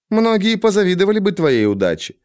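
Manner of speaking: haughty tree creature stressing многие; talking tree. A narrator's reading. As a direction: lean on многие, smug and knowing. The Cthaeh boasts.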